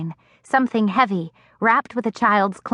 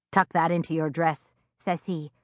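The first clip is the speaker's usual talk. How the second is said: much softer, lower, hushed advice; hushed warning; 3 semitones lower, 7 dB quieter than usual. A narrator's reading. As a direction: warn her quietly in the dusk. Old man hushed warning.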